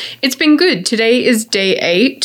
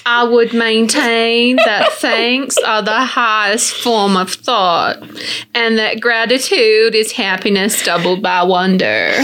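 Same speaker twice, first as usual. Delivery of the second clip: American accent. Shown as a demonstration. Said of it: "Say it in an American accent".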